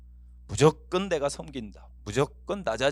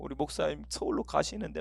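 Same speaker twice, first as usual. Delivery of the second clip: soft, mock-sobbing prayer; imitated tearful prayer; 6 dB quieter than usual. Congregant praying as pastor leaves for Seoul, imitated weeping. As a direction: pretend to weep through the words. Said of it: "하면서 울고".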